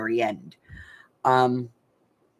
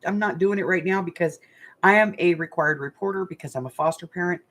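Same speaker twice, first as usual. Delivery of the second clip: retold warning; 5 semitones higher than usual. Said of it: "I told him, I said".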